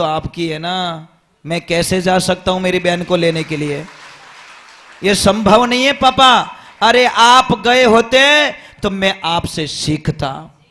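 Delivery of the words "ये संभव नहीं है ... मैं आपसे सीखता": son scolding. Retold or imitated.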